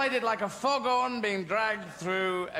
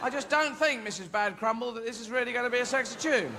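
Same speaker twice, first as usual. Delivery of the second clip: put-on higher, doubtful child voice; young music pupil; 5 semitones higher than usual. Pupil doubting Missus Bad Crumble's tune, doubtful. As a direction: query it politely in a high voice.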